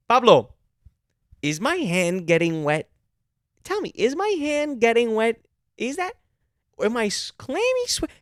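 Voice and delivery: high, loud hammed-up indignation; mock a bossy manager badgering staff; demanding manager. Exaggerated manager demanding staff notice rain.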